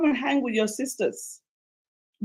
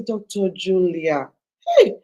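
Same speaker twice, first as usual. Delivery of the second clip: Pidgin plea; 6 semitones lower, 3 dB louder, slower than usual. Retold or imitated. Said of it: "who says".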